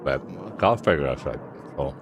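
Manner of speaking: talking through a mouthful of food; mouth full. Real, not acted. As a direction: say it round a bite of food. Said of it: "Stop speaking with your mouth full".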